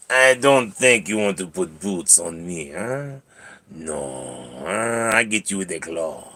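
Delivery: put-on French-accented cat's threat; softening French-accented cat voice. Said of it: "I don't know why he went French".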